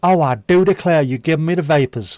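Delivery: clutch your pearls and swoon for the back row; hammed-up fainting lady from an old British film; overwrought film heroine. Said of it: "she would go like that".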